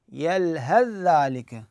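very slow يلهث ذلك with ث merged into ذ; Quranic recitation. Shown as a demonstration. Teacher demonstrating the verse, very slow recitation. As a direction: stretch يلهث ذلك as one merged word. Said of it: "فشو نقول؟".

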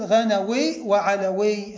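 غنوي وعلوي slowly, ending in -awī; demonstrated nisba forms. Shown as a demonstration. Teacher showing nisba of غني وعلي, slow careful demonstration. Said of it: "هكذا".

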